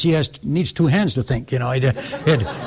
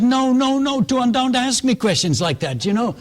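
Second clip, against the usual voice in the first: flustered protest; 9 semitones higher than usual. Retold or imitated. Flustered man begs not to be asked.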